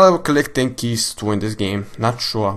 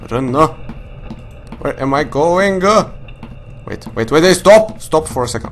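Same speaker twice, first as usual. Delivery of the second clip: frantic, breathless panic; urging yourself to flee; being chased; 3 semitones higher than usual. Real, not acted. Fleeing monster in horror game.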